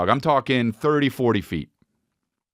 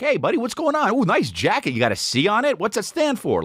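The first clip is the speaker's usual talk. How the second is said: put-on cutesy baby talk; 6 semitones higher than usual. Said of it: "I'm like".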